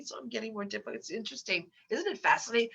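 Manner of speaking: speaking with a blocked nose; stuffy nose. Real, not acted. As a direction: talk through a head cold. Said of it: "I'm getting more stuffy".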